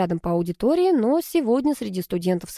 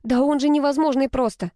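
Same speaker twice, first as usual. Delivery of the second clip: seething; 7 semitones higher than usual. A narrator's reading. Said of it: "кипела Алка".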